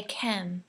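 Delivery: kem with a short clipped e instead of a long A; kem, the mistake to avoid; wrong short e. Shown as a demonstration. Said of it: "don't say kem".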